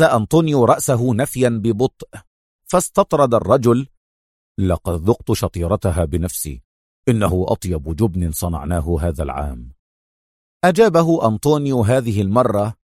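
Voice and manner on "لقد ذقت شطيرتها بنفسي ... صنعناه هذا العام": lower-voiced henchman. A narrator's reading. Henchman speaks.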